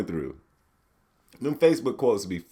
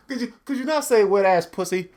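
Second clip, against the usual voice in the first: higher, polite white-guy voice; 6 semitones higher than usual. Pretend. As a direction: argue politely like a white husband. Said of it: "I use my white voice".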